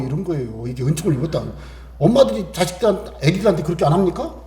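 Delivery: normal talking voice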